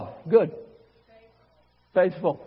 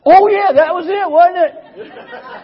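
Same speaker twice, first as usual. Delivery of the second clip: sheepish realization; 9 semitones higher, 8 dB louder, slower than usual. Retold or imitated. His sheepish reply to God.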